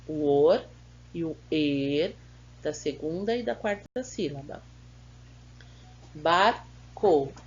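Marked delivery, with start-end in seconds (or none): 6.1-7.3 "Barco" in two separate beats, louder on the first; "Barco" syllable by syllable, first one punched; split into syllables. Shown as a demonstration. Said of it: "Separe as sílabas dessas palavras".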